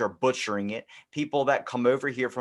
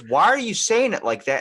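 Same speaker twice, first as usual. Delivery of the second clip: buddy baffled; 6 semitones higher, 7 dB louder than usual. Retold or imitated. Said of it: "And he goes".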